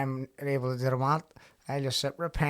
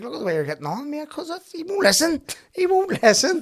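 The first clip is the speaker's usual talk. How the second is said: imitating whiny partner; 8 dB louder than usual. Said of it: "She's like".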